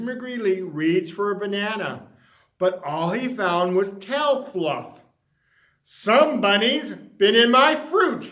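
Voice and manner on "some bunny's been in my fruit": cried out. Acted. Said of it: "he cried".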